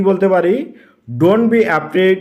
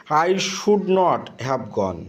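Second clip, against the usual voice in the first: slow dictation; much slower than usual. Shown as a demonstration. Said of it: "তাহলে কেমন লিখতে পারি?".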